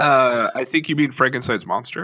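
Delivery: posh British geek correcting someone; English nerd voice. Acted. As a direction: pedantic English accent, nose in the air. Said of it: "in an extremely English nerd voice".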